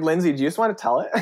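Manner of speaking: fast, laughing through it; quick self-mocking laugh. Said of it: "I was like".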